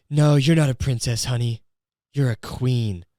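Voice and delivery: hammed-up sappy husband line; cheesy mock sincerity. Mocking a husband's compliment to his wife, cheesy mock sincerity. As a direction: lay on the cheese, mocking the sweet talk. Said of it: "like, cheesy and gay".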